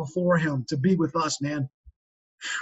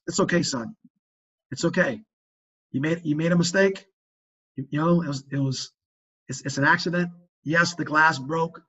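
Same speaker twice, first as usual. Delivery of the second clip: calm fatherly reassurance; 2 semitones lower than usual. Acted. Father to son after the glass broke, calm reassurance. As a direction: reassure him gently, unhurried.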